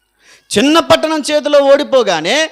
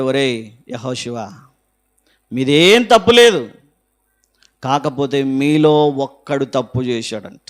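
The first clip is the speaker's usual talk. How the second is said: God's voice; 8 semitones lower than usual. Acted. God answers Joshua.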